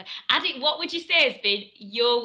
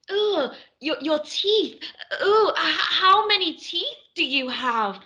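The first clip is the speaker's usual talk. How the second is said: mock-disgusted, slightly raised voice; disgusted director; 3 semitones higher, slower than usual. Director recoiling at an actor's teeth, mock disgust. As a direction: act out a director appalled by what they see.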